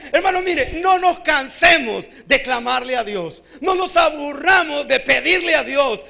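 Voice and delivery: forceful preaching with stretched, punched words; urgent exhortation. Real, not acted. Preacher urging brothers never to tire of praying, urgent exhortation. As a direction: exhort the congregation to keep on asking.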